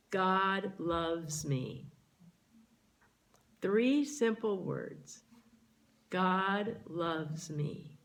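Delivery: each word set apart, very slow and falling; slow affirmation. Shown as a demonstration. Minister reciting the affirmation slowly. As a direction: savour it, slowly. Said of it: "tell yourself".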